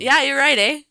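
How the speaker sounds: Canadian "eh?" with a bright rising tag; Canadian accent. Pretend. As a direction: play up the Canadian "eh". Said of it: "it's a Canadian accent".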